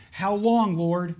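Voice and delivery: high, loud plea of how long; lamenting cry. Acted. Voicing the lament to God.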